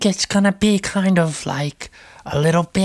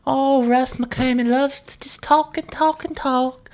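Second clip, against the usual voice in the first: Russ voice; 6 semitones higher than usual. Acted. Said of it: "My name's Russ".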